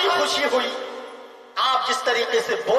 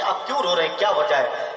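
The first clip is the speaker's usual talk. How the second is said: lightly voiced maulana; 6 semitones lower than usual.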